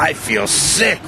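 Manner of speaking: wail. A narrator's reading. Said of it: "wailed Diesel".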